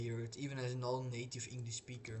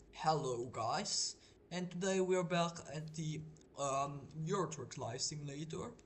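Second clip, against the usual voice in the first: overdone English accent, higher and louder on the intro; put-on English accent; 4 semitones higher, 4 dB louder than usual. Shown as a demonstration. Streamer greeting viewers to show an accent, put-on English accent. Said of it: "like, overdone".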